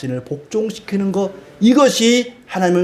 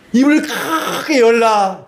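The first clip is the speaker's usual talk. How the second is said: high, drawn-out mock call with a long "크게"; exaggerated calling out; 6 semitones higher, slower than usual. Preacher acts out trying his mother's sore-throat cure, exaggerated calling out. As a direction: stretch it out high, mouth wide open.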